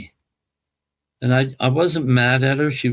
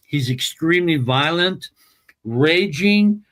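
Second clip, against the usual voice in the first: retold emotional plea, pressing the point; emphatic, mildly raised retold appeal; 3 semitones higher than usual. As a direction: plead your case with some urgency. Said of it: "And I was very emphatic".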